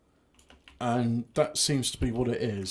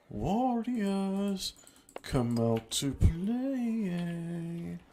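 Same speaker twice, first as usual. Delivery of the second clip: higher, very slow singsong taunt; 5 semitones higher, much slower than usual. Pretend. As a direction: drag it out teasingly. Taunt repeated slower.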